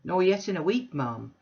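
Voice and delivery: a loud, bluff self-made man; blustering Bounderby. Acted. Bounderby booming an invitation to Mrs Sparsit. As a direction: boom the invitation like a braggart host.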